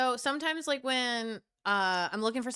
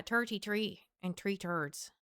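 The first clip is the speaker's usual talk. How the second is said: softer joke Irish with "t" for "th"; mock Irish accent; 3 semitones lower, 5 dB quieter than usual. Shown as a demonstration. Streamer showing off their Irish, mock Irish accent. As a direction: play at being Irish. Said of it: "That's my Irish".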